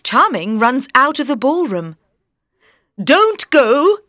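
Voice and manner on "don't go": pleading prince. A narrator's reading. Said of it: "he says".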